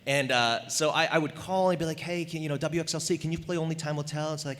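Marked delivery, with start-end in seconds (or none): 2.0-4.3 put-on a lightly disguised kid caller; different voice. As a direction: fake a new caller's voice. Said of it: "use a different voice every time".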